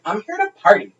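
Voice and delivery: put-on high, giddy party-girl squeal; squeaky mock drunk girl insisting she's here to party; drunk woman. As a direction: ham up the drunk stranger's chant. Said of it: "And she was like".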